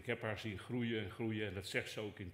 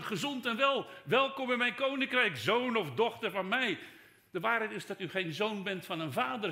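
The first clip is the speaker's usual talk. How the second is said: high, loud sermon build-up; fervent preaching; 7 semitones higher, 5 dB louder than usual. Acted. Preacher telling the congregation they are loved, loud and high. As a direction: preach it with full force.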